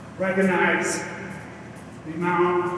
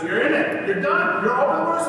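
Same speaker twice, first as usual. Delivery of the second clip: excited coaching; 9 semitones higher, 4 dB louder than usual. Real, not acted. Coach urging in ice bath.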